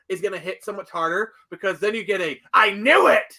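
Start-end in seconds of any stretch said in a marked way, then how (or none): 2.5-3.4 loud, higher mock audience cry; excited realization. Viewer reacting to the Miss Prince reveal, excited realization. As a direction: burst out like a vindicated viewer.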